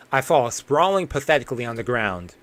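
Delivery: plain, even read of the collapse; lightly acted exhausted narrator; story narration. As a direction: narrate the struggle steadily. Reads the collapse in the alley.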